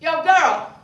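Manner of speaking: loud, high mock catcall; guy on the corner hollering at her. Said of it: "look in your direction and shout".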